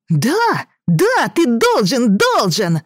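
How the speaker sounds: put-on high, slow, insistent boy; stubborn child.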